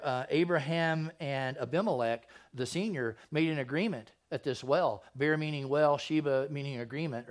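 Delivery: steady, measured Bible reading; scripture reading. Acted. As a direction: read the passage aloud to the church. Reads and explains scripture aloud.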